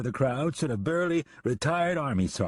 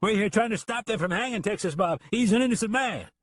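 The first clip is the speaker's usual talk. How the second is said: calling out; 11 semitones higher than usual. Acted. Man in crowd calling.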